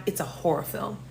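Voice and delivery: low, whispery aside; hushed dread. Real, not acted. Storyteller confiding how the date turned scary, hushed. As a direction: drop to a near whisper. First, hushed take of the line.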